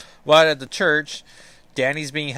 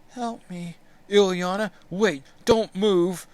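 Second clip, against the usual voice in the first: put-on high, slow little-girl voice asking "Peter Nikovich Voss?"; small child calling out from inside the armor, high and slow; child's voice from the armor; 8 semitones higher, 4 dB louder than usual. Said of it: "six-year-old Ileana inside the armor".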